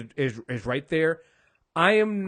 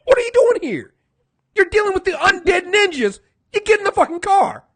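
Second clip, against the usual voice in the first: higher, louder mock shouting; mock yell; 10 semitones higher, 6 dB louder than usual. Matt ordering Karen into the car, in a loud mock shout. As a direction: bark it like ordering someone into a getaway car.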